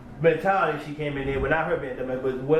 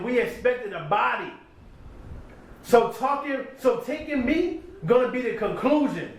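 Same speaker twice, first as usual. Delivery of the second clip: higher rap delivery of the bars; reciting a battle bar; 5 semitones higher than usual. Retold or imitated. Retelling a battle verse in rap cadence.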